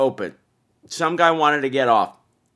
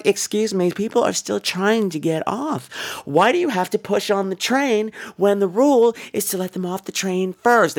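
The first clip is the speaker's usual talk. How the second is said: calmly firm; 6 semitones higher than usual. Retold or imitated. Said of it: "talking very calmly".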